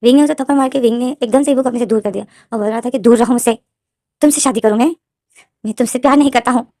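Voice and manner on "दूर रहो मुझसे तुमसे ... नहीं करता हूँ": louder, forceful push-away; angry rejection. Retold or imitated. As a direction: shove him off with words, loud and fed up. Wing slaps Ivo, pushes away. (गुस्से में ज़ोर से झिड़कना)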